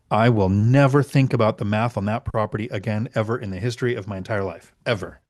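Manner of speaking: emphatic declaration ending on a separate, final word; deliberate and emphatic. Shown as a demonstration. Investor swearing off rechecking the math, deliberate and emphatic. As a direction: drive each phrase home firmly. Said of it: "I'm gonna say it slow".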